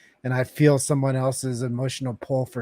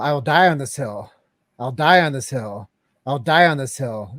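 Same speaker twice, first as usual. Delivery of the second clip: retold battle cry, louder, each die hit hard; 5 dB louder than usual. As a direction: chant it as a rallying cry. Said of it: "I said from the top of my, my voice".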